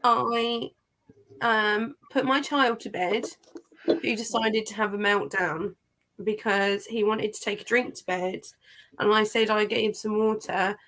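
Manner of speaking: flat, emotionless delivery with a sore throat; deadpan, no emotion whatsoever. Real, not acted. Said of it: "really deadpan voice with the accent".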